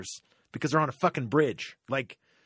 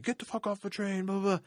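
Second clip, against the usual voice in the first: much higher, disgusted snap at her; mock passenger yell; 9 semitones higher than usual. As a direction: bark it like a fed-up commuter. Passengers telling her to leave.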